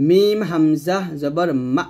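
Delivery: slow মিম হামজা জবর মা with a glottal push into মা; slow careful hamza-stop on মা. Shown as a demonstration. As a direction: spell it out slowly, catch before মা. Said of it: "একটু ধাক্কা দিয়ে বলবেন".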